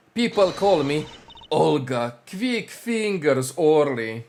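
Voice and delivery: put-on slow, proud Russian accent. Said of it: "I'm still gonna do the Russian accent".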